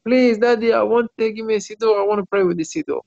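lightly acted child's plea; retold tearful pleading. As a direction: plead like a small boy wanting something. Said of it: "he started crying".

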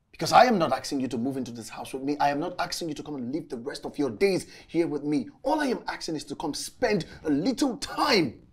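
exasperated reproach, climbing in pitch; animosity. Acted. Man pleading with visiting friend for time, resentful. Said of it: "where is this animosity coming from?".

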